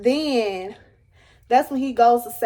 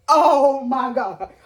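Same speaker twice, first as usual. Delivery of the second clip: drawn-out wail, slow and rising; mock-tearful moan of despair; crying; 2 semitones higher, much slower than usual. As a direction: stretch it out as if breaking into tears. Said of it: "I started crying down".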